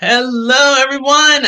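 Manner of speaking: very loud excited shout. Greeting everyone after a long week, in excited shouting. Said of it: "The reason why I'm shouting is because I'm so excited".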